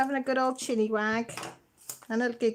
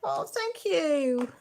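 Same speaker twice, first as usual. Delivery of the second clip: choked up; 7 semitones higher, much slower than usual. Real, not acted. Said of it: "you're gonna make me cry".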